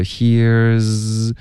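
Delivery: HERE'S as one syllable flowing into z; linked z. Shown as a demonstration. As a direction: model "here's" with a held z. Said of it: "你要连发进去这个z".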